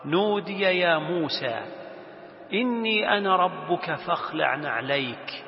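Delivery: slow, even, sustained recitation; Quran recitation. Acted. God's call to Moses read to students, reciting slowly. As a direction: recite solemnly with long vowels.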